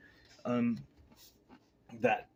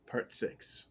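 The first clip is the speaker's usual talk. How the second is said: whisper; 10 dB quieter than usual. Shown as a demonstration. Announcing the part again.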